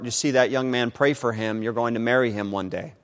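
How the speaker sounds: hushed, softly voiced prompting; imitated subtle whisper. The Lord prompting her heart about a young man, hushed. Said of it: "whisper from the Lord".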